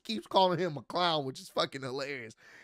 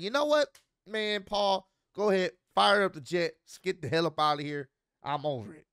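irritated; 2 semitones higher, 5 dB louder than usual. Retold or imitated. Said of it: "you can tell he was irritated".

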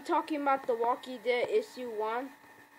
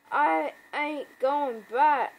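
slow and loud, determined; firm loud quote; 3 semitones higher, 6 dB louder, slower than usual. Retold or imitated. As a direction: lay it down slow and hard. Acted comic quote.

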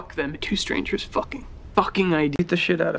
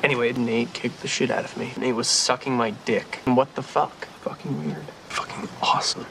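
swearing tirade. Acted. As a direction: build to a furious rant. Rapid-fire swearing montage.

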